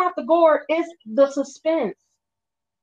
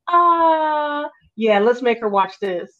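scheming brain; 4 semitones higher than usual. Retold or imitated. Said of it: "And they're like".

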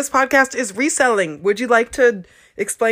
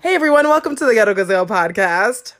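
bright host intro; faster than usual. Shown as a demonstration. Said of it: "that's not how I say it".

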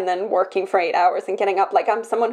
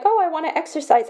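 mock eager self; 7 semitones higher, faster than usual. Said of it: "sometimes where you've been like".

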